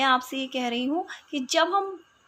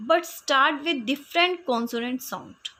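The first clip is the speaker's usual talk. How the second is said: slow dictation; much slower than usual. Shown as a demonstration. Teacher reads definition slowly.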